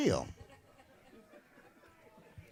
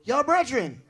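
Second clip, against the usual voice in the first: Jamaican call; 5 semitones higher, 4 dB louder than usual. Retold or imitated. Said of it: "I hear".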